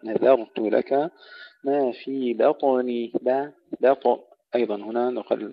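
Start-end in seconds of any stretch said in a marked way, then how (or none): 0.0-3.1 بطني with light باء and bouncing heavy طاء; slow recitation, qalqala on the طاء of بطني; tajweed recitation. Shown as a demonstration. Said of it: "نرقق الباء ونقلقل الطاء المفخمة". (ترتيل بطني بقلقلة الطاء)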